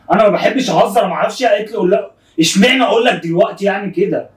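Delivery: worked-up self-justification; defensive protest. Real, not acted. Defending himself to upset friend.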